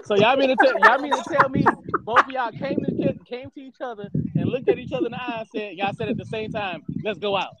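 high, loud disbelieving tease; can't believe what you're hearing; incredulous. Real, not acted. Teasing disbelief at mutual answer.

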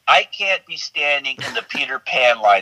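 laughing through it. Real, not acted. Guest telling host about Disneyland alone, laughing. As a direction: chuckle as you quote your own worry. Retold worry, laughing while quoting.

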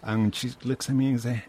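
normal talking voice

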